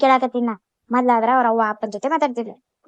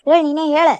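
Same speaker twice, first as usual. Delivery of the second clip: loud, higher, insistent challenge; angry demand; 4 semitones higher, 6 dB louder than usual. Acted. Sister angrily demands her brother answer her, loud and sharp. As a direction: push him hard for an answer.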